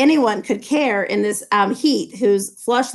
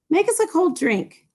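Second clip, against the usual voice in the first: Daisy calls out for a drink, voice up high; cried out; 8 semitones higher than usual. A narrator's reading. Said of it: "cried Daisy".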